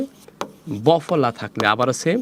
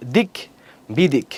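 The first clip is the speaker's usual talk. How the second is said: "দিক বিদিক" broken into two pieces with a pause; two separate stops. Shown as a demonstration. Teacher showing it stops twice, "দিক", pause, "বিদিক". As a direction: stop after "দিক", then say "বিদিক". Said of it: "থামসে কবার? দুইবার".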